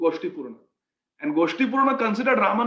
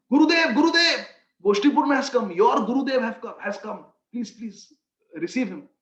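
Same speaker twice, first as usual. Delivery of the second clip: urgent announcement; 5 dB louder than usual. Acted. Disciples announcing guru's arrival.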